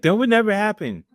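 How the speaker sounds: put-on high-pitched Spanish accent; joking Spanish accent. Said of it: "That was my Spanish accent".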